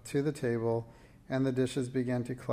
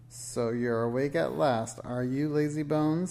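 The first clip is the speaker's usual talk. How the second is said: sneering witch; 2 semitones higher, 3 dB louder than usual. Acted. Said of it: "the witch greeted her".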